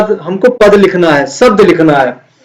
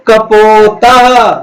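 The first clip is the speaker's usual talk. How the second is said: each word stretched out slowly; slow recitation for class; much slower than usual. Shown as a demonstration. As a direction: drill the words slowly for the children. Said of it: "चित्र देखकर". (धीमा, खिंचा हुआ पाठ)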